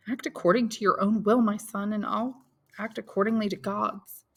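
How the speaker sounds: mother fearing for her son's future; voiced mother Mercédès.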